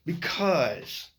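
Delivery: halting, slow stammer with long pauses; words catch and break off; stuttering. Real, not acted. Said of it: "I am not stuttering too well".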